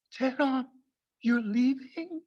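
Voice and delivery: dad calling after him, alarmed and dragged out; mock worried dad. Son leaving the house, dad asks anxiously in mock voice. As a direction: stretch it like a worried Persian father. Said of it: "He says it like".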